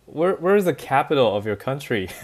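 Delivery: a nervous laugh through the question; laughing while asking. Retold or imitated. Retold awkward question, laughing.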